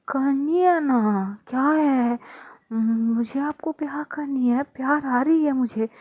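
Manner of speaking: tipsy Adhya insisting to Pranali, high and drawn out. Acted. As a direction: stretch the words like a drunk girl begging.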